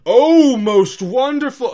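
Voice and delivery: loud, thrilled royal exclamation; very excited. Retold or imitated. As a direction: gush with royal delight. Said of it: "very excited and goes".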